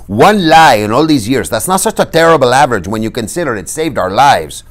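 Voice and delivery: loud defensive plea; self-justifying Inigo. A narrator's reading. Inigo argues his case to Fezzik.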